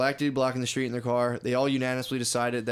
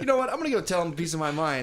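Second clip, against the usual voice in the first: lightly played drunk bluster, starting high; mock drunk; 4 semitones higher than usual. Drunk developer going to tell him off, mock drunk bluster. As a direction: play a drunk guy working himself up. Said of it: "he goes, all drunk".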